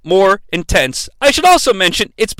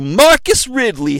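slow greeting; 3 semitones higher than usual. Retold or imitated. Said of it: "Chris Klein, a rapper, conversation".

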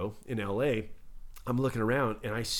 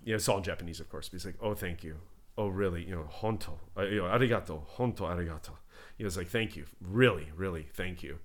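imitating a crestfallen man, softer and lower; a touch of sad disappointment, quietly; deflated thanks; 6 semitones lower, 7 dB quieter than usual. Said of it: "his shoulders slumped and his head went down".

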